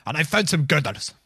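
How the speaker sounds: chirpy delivery man announcing himself; Michael Mintz. Acted. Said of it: "Michael Mintz".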